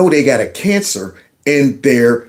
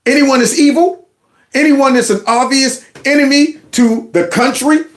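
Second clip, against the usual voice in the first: sarcastic finish; 8 semitones higher than usual. Real, not acted. Sarcastic completion of her sentence.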